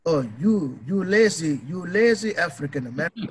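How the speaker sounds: lightly put-on African accent, scolding; mocking voice of an African critic. Podcaster imitating critic in a light African accent. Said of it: "let me use my African accent".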